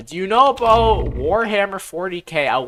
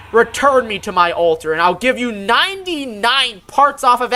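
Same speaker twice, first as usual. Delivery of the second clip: higher and louder, lordly and grand; grand golden god voice; 6 semitones higher, 5 dB louder than usual. Acted. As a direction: proclaim like a greedy god of wealth.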